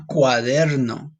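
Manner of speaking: CUADERNO drawn out with a rolled R; slow teacher's "cuaderno", R rolled. Shown as a demonstration. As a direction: roll the R in "cuaderno", slowly. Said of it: "you have to roll your R".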